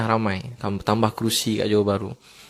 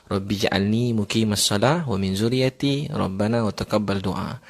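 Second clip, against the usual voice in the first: prayer recitation; slower than usual. Acted. Reciting Quranic prayer in Arabic.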